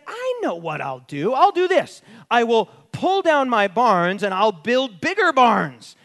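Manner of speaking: lightly voiced self-pleased rich man; a hint of the smug rich man; rich fool. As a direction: play the farmer scheming over his barns. Voicing the rich man in parable.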